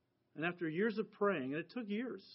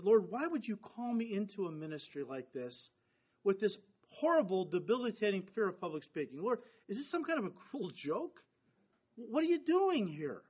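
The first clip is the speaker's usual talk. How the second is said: crying out to the Lord; 2 semitones higher than usual. Retold or imitated. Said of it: "crying out to the Lord".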